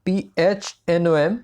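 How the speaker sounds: slow letter-by-letter spelling; spelled out. Shown as a demonstration. Teacher showing students the pronunciation, spelled out slowly. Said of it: "इसका pronunciation आप जो कर लें".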